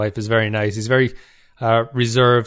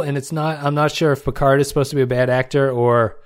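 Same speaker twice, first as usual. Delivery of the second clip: ordinary talk, nothing marked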